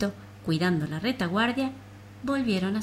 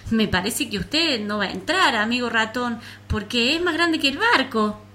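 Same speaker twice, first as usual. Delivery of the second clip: small high fretful voice; high little flea voice; 4 semitones higher, 4 dB louder than usual. Acted. Flea warns the mouse.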